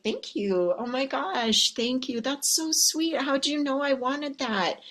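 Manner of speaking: high, gushing delighted thanks; gushing thank-you. Retold or imitated. Coach mimics women gushing over gifts, high and delighted. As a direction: gush over a gift like a delighted woman. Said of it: "other women are like".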